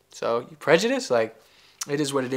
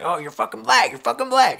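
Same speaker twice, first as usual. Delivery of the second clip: mocking white accuser; 9 semitones higher, 4 dB louder than usual. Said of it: "white people like".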